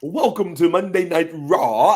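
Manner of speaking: lilting Irish announcer welcome; cheery Irish announcer intro; mock Irish announcer. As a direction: send up the Dublin announcer's greeting. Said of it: "I don't need to hear that accent".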